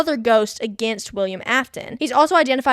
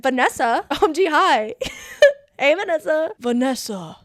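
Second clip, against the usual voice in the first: high, showy rock-star voice; glam rock singer impression; 4 semitones higher than usual. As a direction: camp it up like a glam rocker. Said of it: "good glam rock singer impersonation".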